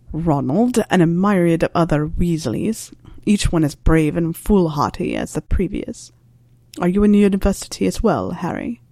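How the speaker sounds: a lightly voiced wry old teacher, unhurried; dry Snape voice.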